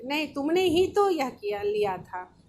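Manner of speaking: mock accusation, leaning hard on तुमने ही; forceful insistence. Shown as a demonstration. Teacher showing the children an emphatic accusation, pressing hard. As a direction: insist it was you, with weight. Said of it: "मैं बल दे करके बोल रही".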